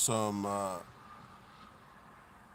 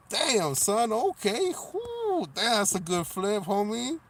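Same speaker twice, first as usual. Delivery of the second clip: excited hype; 10 semitones higher, 5 dB louder, slower than usual. Real, not acted. Reacting to big thrift flip.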